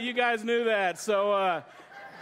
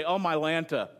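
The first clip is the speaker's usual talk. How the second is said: wife's phrase; 3 semitones lower than usual. Retold or imitated. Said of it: "She'll say".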